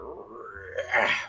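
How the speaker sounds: rattling creak of a barn door; vocal sound effect, door rumbling; rolling door noise. Retold or imitated. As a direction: imitate a big door rolling open. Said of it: "like, rolling doors".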